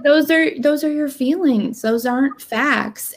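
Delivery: firmer retold correction; mildly stern reality check, slowing at the end; slightly harsher coach. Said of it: "it was probably a little harsher".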